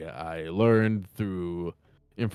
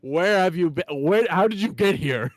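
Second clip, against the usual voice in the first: overjoyed; 8 semitones higher, 3 dB louder than usual. Acted. Father overjoyed at reunion.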